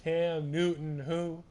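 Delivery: loud, high mocking call-out; hyped taunting. Real, not acted. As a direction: taunt the quarterback loudly. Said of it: "I was getting a bit too hyped".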